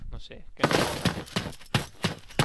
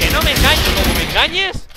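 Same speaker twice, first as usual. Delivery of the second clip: loud threatening; 7 semitones higher, 8 dB louder than usual. Real, not acted. Warning an enemy.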